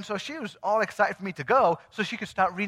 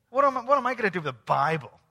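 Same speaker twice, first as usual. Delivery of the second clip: louder, quick protest at an odd gift; retold incredulous question; 3 semitones higher, 5 dB louder, faster than usual. Woman recalling a friend's wacky gift, incredulous. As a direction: throw the question out fast and loud.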